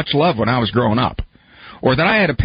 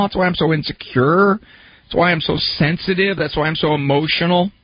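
imitating a self-pitying client; 4 semitones higher than usual. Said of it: "you look back on that and you say".

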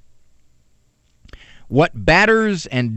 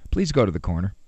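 "Please" said lower and much softer as a kind request; polite request; 8 semitones lower, 6 dB quieter, much faster than usual. Shown as a demonstration. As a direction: ease into "Please go to the corner." gently and quietly. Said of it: "You can use".

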